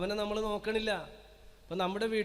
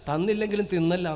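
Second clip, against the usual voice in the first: mocking saying; 3 dB louder than usual. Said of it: "dialogue ഉടനെ".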